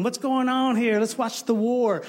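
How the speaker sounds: put-on high, eager boy's voice; a keen kid running up to see the fight; eager shepherd boy. Young David asks his brothers, eager and high.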